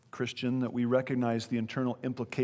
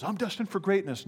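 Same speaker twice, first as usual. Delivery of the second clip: a raised, mocking take on "destined", like a self-important boast; 6 semitones higher than usual. Pastor mimics what everybody says about themselves, mock boast. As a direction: imitate everybody's smug self-promotion, lightly. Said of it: "Everybody says".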